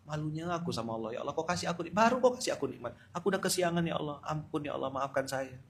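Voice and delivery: hushed, contrite plea to God; ashamed soft prayer. Acted. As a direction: pray softly, ashamed and sorry. Voiced shame-filled prayer to Allah.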